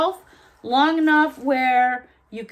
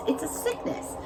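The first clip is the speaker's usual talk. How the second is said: unvoiced, soft whispered aside; confessing whisper; 3 semitones higher, 9 dB quieter than usual. Real, not acted. Admitting her gnome habit to viewers in a whisper. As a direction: whisper it like a guilty secret. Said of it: "Okay, I know".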